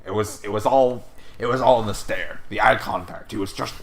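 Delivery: loud ranting talk-show host voice; mock Alex Jones rant. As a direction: bellow it like a conspiracy radio host. Alex Jones style rant, "folks.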